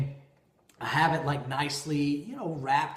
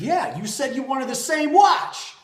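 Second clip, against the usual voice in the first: higher, louder insistent reply; baffled protest; 10 semitones higher, 9 dB louder than usual. Retold or imitated. Husband protesting to his wife about the watch, baffled. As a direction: defend yourself, thrown off.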